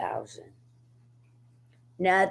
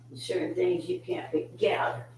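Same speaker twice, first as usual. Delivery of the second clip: whispering; 2 semitones higher, 8 dB quieter, much faster than usual. Real, not acted. Whispering while handling pet.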